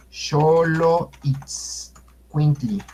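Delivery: Xoloitzcuintli very slow, in pieces: sho-lo, its, kwin-tli; syllable-by-syllable demonstration. Shown as a demonstration. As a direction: break Xoloitzcuintli apart for learners. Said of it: "aquí escriben Xoloitzcuintle, eh, es".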